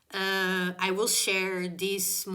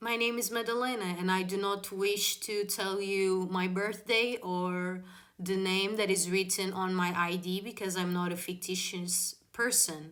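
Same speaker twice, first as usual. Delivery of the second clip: measured, composed refusal; super calm. Retold or imitated. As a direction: retell it calmly and formally. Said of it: "I was super calm".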